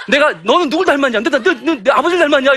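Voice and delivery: high-pitched, stammering mock rant; lightly hammed-up exasperated mum; mock scolding mother. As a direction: scold the child in comic exasperation. Acted mother scolding over test results.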